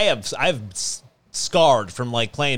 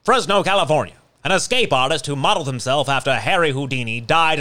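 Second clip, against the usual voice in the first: put-on old newscaster voice. Shown as a demonstration. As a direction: read it like a vintage broadcast. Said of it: "should I read it like a old newscaster?".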